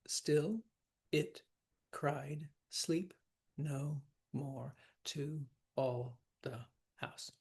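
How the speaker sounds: each syllable set apart with pauses; line counted syllable by syllable; counting syllables. Shown as a demonstration. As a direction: tap out every syllable slowly. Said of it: "let's count the syllables".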